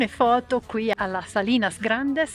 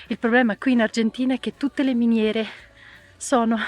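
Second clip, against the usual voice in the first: con il fiatone, respiro corto; senza fiato. Real, not acted. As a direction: parla col fiato corto, ansimando. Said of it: "scusate il fiatone". (voce affannata dopo lo sforzo)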